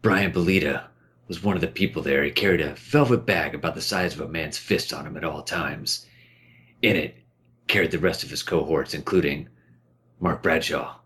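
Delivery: low, lightly gruff thief narrator; a hint of a brooding thief; Garrett voice. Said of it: "that was supposed to be my Garrett from Thief, Deadly Shadows voice".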